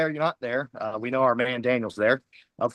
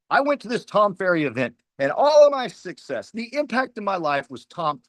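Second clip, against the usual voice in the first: mock gushing testimonial; 4 semitones higher than usual. Mocking a typical success claim.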